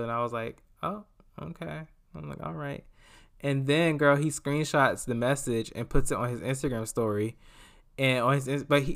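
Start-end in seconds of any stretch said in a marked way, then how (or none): 0.8-2.8 meek acceptance. Retold or imitated. Acting out her underwhelmed reply.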